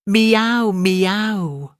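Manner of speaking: high, loud cat meow falling away; cat's meow. Acted. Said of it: "interrupted Simpkin".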